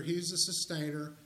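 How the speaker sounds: ordinary talk, nothing marked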